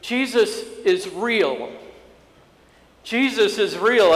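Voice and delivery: high, drawn-out cry of conviction; tearful awe. Retold or imitated. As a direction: retell a tearful teen's amazed declaration. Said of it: "tears rolling down his face".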